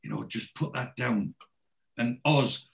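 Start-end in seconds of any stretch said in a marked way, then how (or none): 0.0-1.3 softer, hushed imitation of whispering; quietly voiced plea for quiet; retold whisper. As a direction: keep it down, lightly acted. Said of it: "Dennis is whispering".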